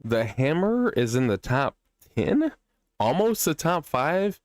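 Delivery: slow, rising, astonished questions, pitch climbing high; can't believe the hammer ranks this well; drawn-out amazed question, voice jumping up; surprised disbelief. Real, not acted.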